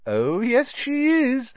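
high, gleeful insistence; happy, rising confirmation; happily. A narrator's reading. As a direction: sing it out high with delight. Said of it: "said Hermione happily".

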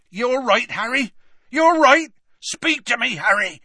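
high, urgent cries of alarm; frantic concern. Acted. Hagrid frantically checking on collapsed Harry, alarmed. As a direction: call out loudly, high and anxious.

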